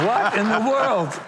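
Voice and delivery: high, drawn-out amazed exclamation; retold astonishment. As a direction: stretch it out, stunned by who is at the door. Astonished at star on his doorstep.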